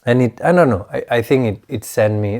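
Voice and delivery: slightly hoarse, recovering voice. Real, not acted. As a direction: talk through a lingering sore throat. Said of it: "my voice is, is clearly much better, but still not quite there".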